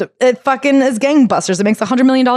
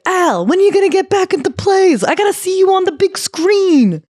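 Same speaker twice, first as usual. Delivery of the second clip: high, eager fan voice pitched well up; mock fan on the street; 11 semitones higher than usual. Fans on the street begging Al to return, high eager voice. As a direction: gush at him like a starstruck fan.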